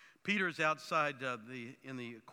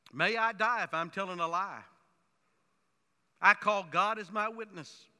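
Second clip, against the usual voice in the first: solemn oath; 3 semitones higher, 9 dB louder than usual. Pretend. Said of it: "probably saying something like".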